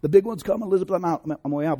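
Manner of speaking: lightly imitated dying-man melodrama, starting high; hammed-up heart attack cry, easing off; mock alarm at one's own death; George Sanford. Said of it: "reminds me a little bit of George Sanford".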